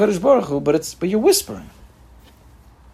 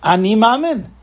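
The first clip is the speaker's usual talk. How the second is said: said with conviction; 5 semitones higher, 3 dB louder, slower than usual. Shown as a demonstration. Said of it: "with conviction".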